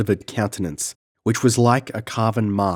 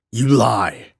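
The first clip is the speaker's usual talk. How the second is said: raging, raised threat; a madman's raised fury; furious accusation; 2 semitones higher than usual. Acted. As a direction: spit the threat at the girl. Valenzo raging at Tina.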